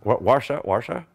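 Warsaw tried as "WAR-sha", rising to a question; attempted Polish pronunciation. Shown as a demonstration. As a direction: echo "Warsaw" uncertainly with sh for the s. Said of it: "How do you pronounce Warsaw?".

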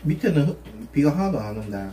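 talking while chewing food; eating between words; mouth full. Real, not acted. Seen 1: Bent over bowl, biting food held on chopsticks at mouth throughout.

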